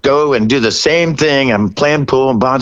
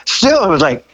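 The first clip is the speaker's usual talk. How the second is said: much higher, gushing fan voice; giddy self-mockery; 7 semitones higher than usual. Real, not acted. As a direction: own it like an excited fanboy. Mock-admitting being a fanboy.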